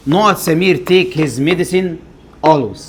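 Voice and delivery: very slow reading, word by word; slow dictation. Shown as a demonstration. Teacher reading the Samir sentence aloud to the class, slow and deliberate. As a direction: spell the sentence out slowly. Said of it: "teacher reads exercise sentence".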